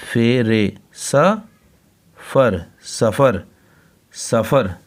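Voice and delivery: सफ़र drawn out slowly, then repeated; slow sounding out. Shown as a demonstration. Teacher slowly sounding out सफ़र for the class. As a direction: spell out सफ़र and say it. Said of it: "ये सीन".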